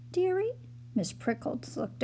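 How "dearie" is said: high rising surprise; surprised. A narrator's reading. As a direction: sound pleasantly surprised. Prickles impressed.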